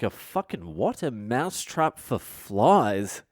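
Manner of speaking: acted-out bafflement, slow and drawn out; drawling, incredulous retold question; mock incredulity. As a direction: echo it back slowly in exaggerated disbelief. Acts out disbelief at product.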